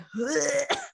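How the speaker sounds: short mock shudder of disgust; exaggerated little noise of disgust; grossed-out shudder noise. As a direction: let out a quick "ugh" of revulsion. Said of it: "makes me feel gross".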